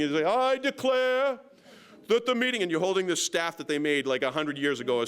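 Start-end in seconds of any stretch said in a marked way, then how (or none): 0.3-2.6 put-on slow, grand British accent pitched much higher; hammed-up upper-class British proclamation; mock British accent. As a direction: proclaim it like a pompous British official, stretching each word. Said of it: "who told you to do the British accent".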